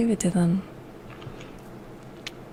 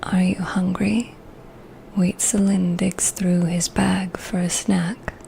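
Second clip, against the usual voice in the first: reading voice. Shown as a demonstration. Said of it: "this is the voice that I do my readings in".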